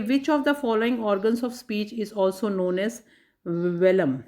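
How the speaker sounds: slow, deliberate reading of the quiz line; slow question reading. Shown as a demonstration. Teacher reading a quiz question to students, slow and deliberate. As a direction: read each word out clearly and slowly.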